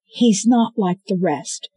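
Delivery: pleading for Wolf; pleading defense. Acted. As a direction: insist he's different.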